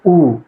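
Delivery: उ held for two beats; long vowel. Shown as a demonstration. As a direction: stretch उ to double length. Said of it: "इसके उच्चारण में दुगुना समय लग रहा है".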